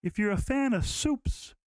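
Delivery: put-on slow, soft, piercing old-man voice with drawn-out S's; an old stranger leaning to his ear, slow and hushed; old man's soft soup tip. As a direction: lean in and purr it like a creepy old man. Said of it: "he almost, like, whispers it in my ear".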